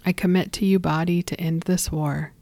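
gentle, deliberate blessing with whispered line ends; slow body blessing. Shown as a demonstration. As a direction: speak it like a calm guided affirmation. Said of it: "I'm gonna say it slow".

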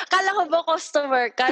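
amused protest through laughter; real laugh breaking into the words. Real, not acted. Laughs at the botched role-play.

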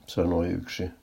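plain reading voice

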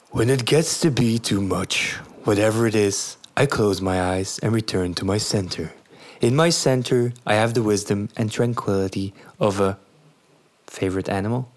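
storytelling voice. Pretend. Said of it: "give me your best storytelling voice".

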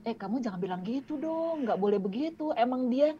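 lightly acted, mild correction that softens as it goes; gentle reproof. Tolerant child defending another group's dialect to a friend, gently.

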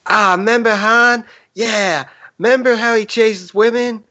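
high, slow, sing-song little grape voice; Member Berries voice. Retold or imitated. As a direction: pitch it way up like a cute talking grape. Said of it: "you gotta do it in that voice".

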